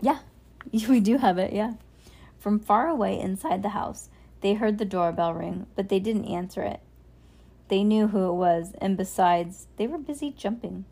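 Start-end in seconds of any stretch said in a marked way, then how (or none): 2.4-10.8 put-on calm storybook reading for a child; story narration. A narrator's reading. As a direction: read it like a bedtime story.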